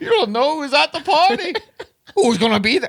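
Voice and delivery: very high-pitched put-on Scottish accent. Redoing an impression about a party, slipping into a Scottish accent. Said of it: "Scottish accent".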